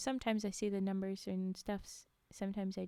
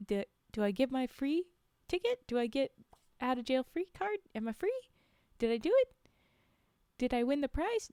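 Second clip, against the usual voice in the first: excited; 3 semitones higher, 3 dB louder than usual. Pretend. Voicing the Class D subject.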